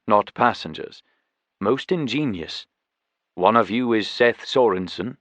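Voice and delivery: measured, formal tiger voice; dignified host tiger, lightly characterized; lightly voiced tiger guardian.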